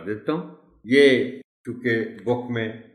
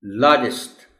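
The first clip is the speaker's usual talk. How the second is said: लार्जेस्ट stressed on opening LAR; लार्जेस्ट with a light final syllable; 4 dB louder than usual. Shown as a demonstration. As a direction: hit the L in लार्जेस्ट, LAR-jist. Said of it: "एल पर stress है".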